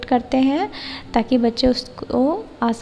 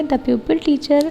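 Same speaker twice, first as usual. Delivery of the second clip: slow, word-by-word read-out of the plan; slow dictation reading; much slower than usual. Shown as a demonstration. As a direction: read it slowly so students can write it down. Reads lesson-plan step aloud. (धीमे-धीमे लिखवाने वाले अंदाज़ में पढ़ना)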